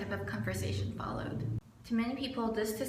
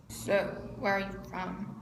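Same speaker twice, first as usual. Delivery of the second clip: put-on Spanish accent. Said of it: "in this really thick Spanish accent".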